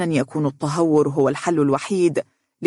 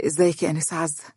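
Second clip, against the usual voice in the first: smiling greeting; 3 dB quieter, faster than usual. A narrator's reading. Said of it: "وهو يقول بابتسامة".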